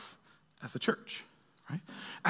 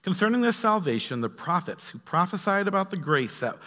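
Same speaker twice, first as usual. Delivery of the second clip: emphatic read-aloud with rising starts and falling phrase ends; expressive Bible reading; scripture reading. Acted. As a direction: read the letter out to the congregation.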